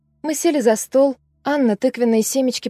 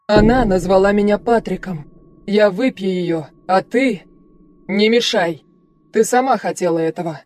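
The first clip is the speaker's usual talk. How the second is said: a lightly lowered, cold, domineering stranger's voice; cold commanding voice; 2 semitones lower than usual. Acted. Possessing entity speaks through Ellie to the doctor, cold and commanding. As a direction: speak as an alien presence, coldly in control. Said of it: "заговорила чужим голосом. Тот звучал властно и холодно".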